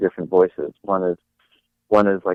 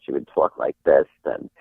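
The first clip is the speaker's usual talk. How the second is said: put-on a touch of an old Jewish great aunt, lower; Muriel; 7 semitones lower than usual. Imitating a great aunt for the host, lightly voiced old lady. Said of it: "she used to seriously talk like that".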